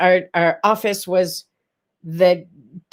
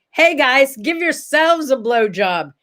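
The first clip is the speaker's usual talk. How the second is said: mild mock yell, a bit higher; retold yell; 4 semitones higher, slower than usual. Woman at the bar door leaving, mildly mock-yelling. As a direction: call out a cheeky parting line. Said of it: "I yelled".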